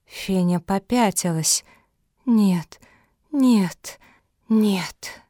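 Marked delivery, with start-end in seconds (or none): 2.2-5.2 breathless whispered no; backing away in fright, barely voiced; frightened whisper. A narrator's reading. Fenya backs away frightened. (испуганный шёпот)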